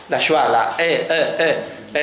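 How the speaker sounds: the e said as a reduced neutral schwa vowel; schwa demo. Shown as a demonstration. Teacher showing students the schwa sound.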